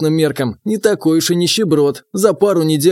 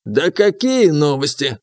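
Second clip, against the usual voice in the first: snorting; slower than usual. Acted. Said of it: "фыркнул Пафнутий".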